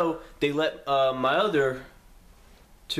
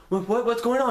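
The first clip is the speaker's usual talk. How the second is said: confused; 8 semitones higher, 3 dB louder than usual. Retold or imitated. Confused teen stopped by police.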